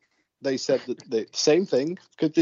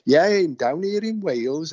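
lilting mock Valleys Welsh; put-on Welsh accent; 3 semitones higher than usual. Ghost investigator answering a radio interviewer, in a put-on Welsh accent. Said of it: "then back to Welsh".

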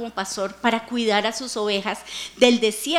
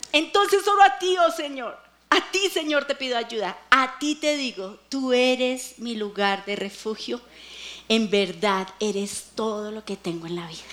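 fading lament. Retold or imitated. Preacher reads David's psalm, fading lament. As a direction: let the melodrama sink to a hush. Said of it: "telenovela mexicana".

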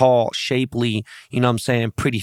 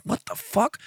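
high-pitched, softer incredulous mimicry; mock disbelief; 14 semitones higher, 5 dB quieter than usual. People reacting to his family-man image, imitated high-pitched disbelief.

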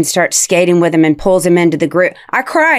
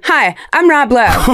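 kid's Rob Lowe impression; 4 semitones higher, slower than usual. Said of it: "He'll be like, he runs in my room".

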